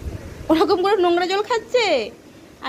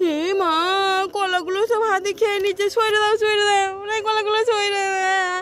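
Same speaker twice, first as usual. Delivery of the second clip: mock dismay; 2 semitones higher than usual. Parent playing along with child as elephant eats the bananas, mock dismay. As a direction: pretend to panic, stretching the cries.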